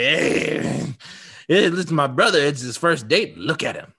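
lightly acted drunk heckler; a hint of drunken jeering; drunk obnoxious douchebag. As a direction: tease like a tipsy, obnoxious brother. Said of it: "doing that whole drunk, obnoxious douchebag bit".

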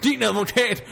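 high-pitched incredulous question; scoffing disbelief. Acted. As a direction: echo the threat back scornfully, pitched high. Threatened with a lawyer. (hånligt og vantro i højt toneleje)

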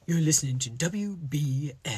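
breathy radio ad whisper. Pretend. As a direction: whisper like a late-night station. Mock radio station whisper.

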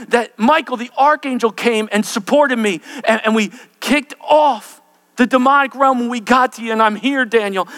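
loud, high, urgent preaching; angel's proclamation. Acted. Angel tells Daniel he fought through, proclaiming loudly.

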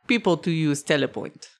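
put-on dwarf explaining, mild German accent; understated accented craftsman; lightly accented dwarf. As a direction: correct the customer with a hint of German. Game master plays the dwarf.

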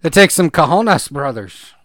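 put-on jokey Cuban accent on cojones, brothers. Co-host echoes the line in a joking Cuban accent. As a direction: toss it off in a playful Cuban accent. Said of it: "I don't know what accent that was".

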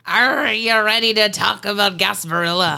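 a hint of mock pirate accent. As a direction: play along with a half-hearted pirate voice. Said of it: "I don't know why I had an accent".

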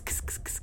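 whispered scratchy kss sounds; pen scratching sound. Shown as a demonstration. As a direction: imitate a quill scratching. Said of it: "There's a sort of kss".

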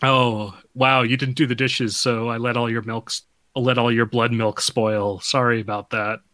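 mildly put-upon mock roommate; understated fake apology with a petty edge; passive-aggressive. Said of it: "it's passive aggressive to the gills".

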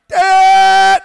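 sharp high shout; embarrassed son shouting at his dad. Retold or imitated. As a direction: yell it like an embarrassed kid. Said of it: "kid scolding father".

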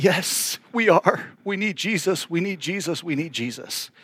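soft, tearful admission, fading away; imitated bawling. Couple confessing their need to the pastor, softly tearful. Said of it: "they're just bawling".

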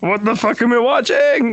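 slow, stunned outburst; shocked disbelief. Retold or imitated. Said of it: "It's like".

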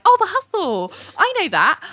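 put-on high-pitched, girlish recognition; mock charmed delight. The speaker recognising a song, mock charmed delight. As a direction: imitate gushing delight, pitched right up.

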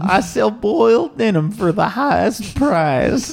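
proud salesman pitch; merchant voice. Acted. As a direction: sell it like a showman. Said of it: "Percy, the voice".

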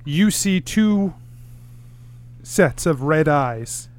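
slow hushed scene setting, dropping to a whisper; ominous narration. A narrator's reading. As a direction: build dread slowly as you reveal the eyes. GM describes eyes in clearing.

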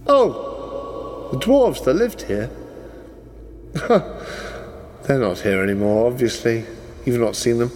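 lightly posh, amused NPC voice; a polite, mock-apologetic posh gent. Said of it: "He does that posh voice so well".

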